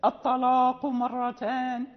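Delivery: slow recitation, light first "a" in "الطلاق"; thin hamza. Shown as a demonstration. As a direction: recite "الطلاق مرتان" with the opening hamza unthickened. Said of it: "إذا جاء بعدها حرف مطبق".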